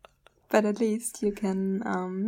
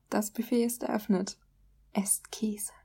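sexy German. Shown as a demonstration. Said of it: "It's so sexy".

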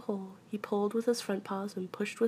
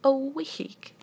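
higher, louder gloomy lament; 6 semitones higher, 5 dB louder than usual. A narrator's reading. Pooh hears he is stuck for a week, gloomily. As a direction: bemoan it in dismay. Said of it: "said Pooh glo-, gloomily".

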